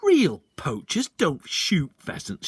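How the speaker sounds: slow, loud scornful emphasis; indignant father; disgusted. A narrator's reading. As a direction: lecture him in disgust.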